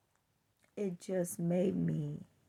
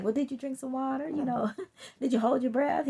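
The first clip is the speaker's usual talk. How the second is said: laughing; 4 semitones higher, 5 dB louder, faster than usual. Retold or imitated. Retold quick suggestions, laughing.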